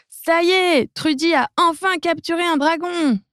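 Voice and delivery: high, gloating cry; triumphant shout. Acted. Viking king boasts about the capture, high and gloating.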